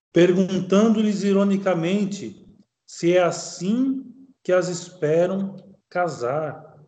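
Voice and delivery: slow, deliberate reading of a text; measured formal recitation with pauses between phrases; reading aloud. Acted. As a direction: read it out slowly, phrase by phrase.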